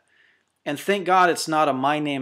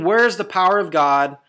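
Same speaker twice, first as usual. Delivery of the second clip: raised, louder cry of complaint, short of screaming; mock desperate scream; 3 semitones higher, 5 dB louder than usual. Preacher imitating sufferers crying out to God, mock scream. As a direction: cry it out as the frustrated believer would. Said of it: "you're screaming".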